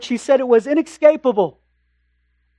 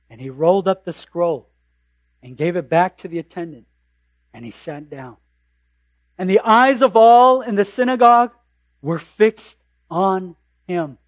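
scripture reading; 4 semitones lower than usual. Acted. Reads Luke passage aloud.

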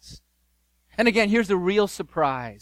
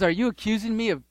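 landowner's rebuke. Acted. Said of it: "he says".

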